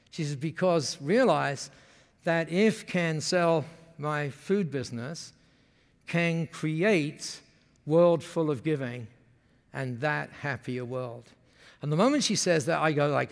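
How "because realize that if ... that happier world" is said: put-on Masami's Japanese-accented English. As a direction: lightly voice a Japanese chef's broken English. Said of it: "when they speak like that".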